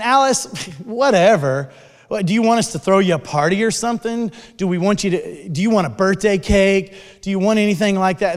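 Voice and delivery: mocking, sneering put-down, quick at the end; imitating a sarcastic jeer; mean sarcastic taunt. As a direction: taunt her like a mean girl. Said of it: "super mean and sarcastic".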